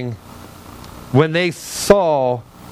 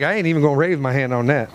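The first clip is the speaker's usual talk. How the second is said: quick, lower-pitched mock refusal; grudging put-on aside; mock reluctant refusal; 4 semitones lower, faster than usual. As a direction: imitate someone stubbornly opting out. Voices reluctant congregant's muttered refusal.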